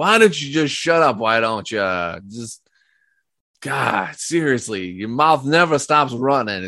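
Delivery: brutish man's voice, exasperated, annoyed, fed-up ranting. Acting out the brutish man in the car snapping at the other, retelling an annoyed outburst. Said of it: "the brutish man that's on the opposite, and he's like".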